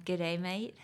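a badly faked Australian G'day, mate; attempted Australian accent. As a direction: try an Aussie G'day, mate and miss. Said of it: "No, that was bad".

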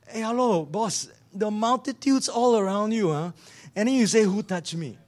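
incredulous Singlish, disciples teasing; "hello boss" in Singlish disbelief; Singaporean accent. Acted. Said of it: "That's the Singlish international version".

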